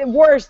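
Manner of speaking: "warsh" with an intrusive R; regional pronunciation. Retold or imitated. Quoting Bill Moyers, "warsh" with an R. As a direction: put an R in "warsh". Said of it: "but he says".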